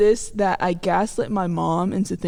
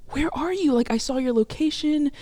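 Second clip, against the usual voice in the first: higher-pitched voice of a puzzled mom; mom's impatient questioning; 5 semitones higher than usual. Retold or imitated. Mom on the phone asking where daughter is, impatient. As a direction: press for an answer, imitating mom.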